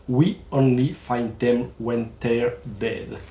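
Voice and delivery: slow, deliberately French-accented English title; mock-proud English with a thick French accent; English with heavy French accent. Shown as a demonstration. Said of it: "Mon accent, il déchire". (anglais avec un fort accent français, lent et appuyé)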